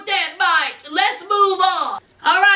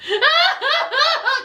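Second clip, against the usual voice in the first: high, hammed-up boohoo sobs; exaggerated fake sobs; mock sobbing; 9 semitones higher than usual. Imitating the crying fiancée, mock sobbing. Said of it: "Cry's not flying".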